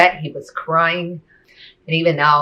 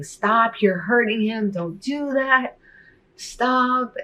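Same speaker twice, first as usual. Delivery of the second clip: put-on desperate child's plea; 8 semitones higher, much slower than usual. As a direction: cry out like a scared child begging her to stop. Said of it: "I'm just sobbing and screaming".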